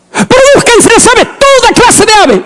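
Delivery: high, ringing divine command; voice of God commanding. Acted. Preacher voicing God's command at creation. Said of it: "todo Dios lo creó con su palabra".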